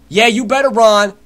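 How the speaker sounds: loud, drawn-out taunt; slow, booming gamer taunt; shouted taunt. Real, not acted. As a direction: yell after them as they flee. Taunting fleeing opponents.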